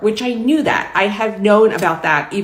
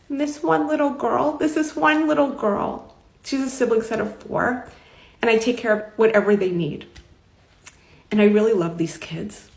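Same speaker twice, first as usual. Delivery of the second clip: tearful retelling; 4 semitones higher than usual. Retold or imitated. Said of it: "like, we were crying".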